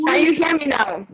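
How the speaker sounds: muffled, breaking-up call audio; speaking through a bad connection. Real, not acted. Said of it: "it's very muffled".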